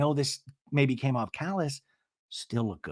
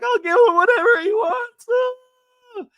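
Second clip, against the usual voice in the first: high, loud hammed-up wail; imitating Shannon breaking into sobs; mock crying; 8 dB louder than usual.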